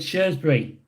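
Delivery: Shrewsbury said as "SHURZ-bree"; Shrewsbury with no "roo", just "shurz"; own pronunciation. Shown as a demonstration. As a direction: say Shrewsbury with "shurz" for the first syllable. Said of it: "I pronounce it as Shrewsbury".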